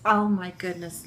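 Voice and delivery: ordinary talk, nothing marked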